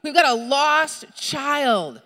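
very slow, high, drawn-out mock yell; hammed-up emergency order, every word stretched; urgent demand. Mother orders the cashier to lock down, mock yelling. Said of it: "I'm looking at the cashier, like".

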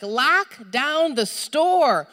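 very slow, high, drawn-out mock yell; hammed-up emergency order, every word stretched; urgent demand. Mother orders the cashier to lock down, mock yelling. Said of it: "I'm looking at the cashier, like".

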